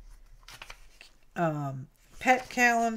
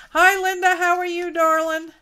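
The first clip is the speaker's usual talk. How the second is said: cooing pet talk; 9 semitones higher, 8 dB louder than usual. Real, not acted. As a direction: coo at the pet sweetly, pitched high. Greeting pet in baby voice.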